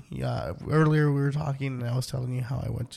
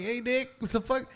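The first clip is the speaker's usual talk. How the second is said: high mock outrage; 9 semitones higher than usual. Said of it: "And I'm like".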